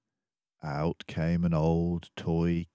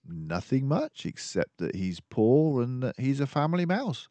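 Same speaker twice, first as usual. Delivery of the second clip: a friendly doctor mouse musing aloud; Dawson the narrator mouse; 8 semitones higher than usual. Acted. Dawson answers Basil.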